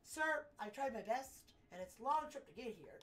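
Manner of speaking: lightly voiced, put-upon errand runner; pleading courier. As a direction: plead your case to a grand client. Courier protests to client.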